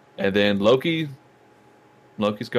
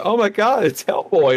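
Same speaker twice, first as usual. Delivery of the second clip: imitated excitement; 10 semitones higher, 4 dB louder than usual. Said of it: "one person in the theater was like".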